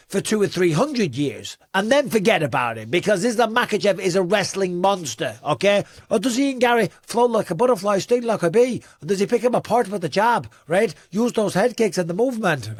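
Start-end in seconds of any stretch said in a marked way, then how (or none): 6.1-12.7 higher-pitched, lightly put-on Irish accent; amateur Irish lilt, pitched up; attempted Irish accent. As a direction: have a rough go at an Irish accent. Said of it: "I can't do an Irish accent".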